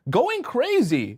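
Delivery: high, stretched-out mock hysteria; mock freak-out. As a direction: draw it out high, imitating someone losing it. Describes her losing her composure.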